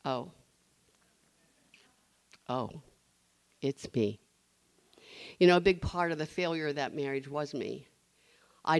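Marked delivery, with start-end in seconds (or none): 0.0-4.2 dawning realization. Retold or imitated. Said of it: "I went".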